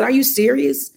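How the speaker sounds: retold anguished questioning of God; mad at God. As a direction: cry out to God in disbelief and anger. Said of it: "I was so mad at God".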